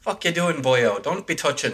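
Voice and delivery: jokey Irish leprechaun scolding; hammed-up Irish "boyo" talk; mock Irish accent. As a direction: put on a playful Irish brogue.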